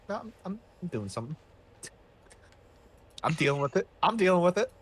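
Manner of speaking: mock-indignant self-defense, stumbling then pushing harder; defensive protest. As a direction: insist under criticism, rising at the end. Acted squabble, defensive reply to accusation.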